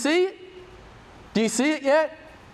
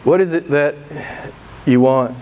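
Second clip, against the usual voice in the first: Jesus asks, loud; 6 semitones lower, 4 dB louder than usual. Acted. Jesus voiced asking the disciples.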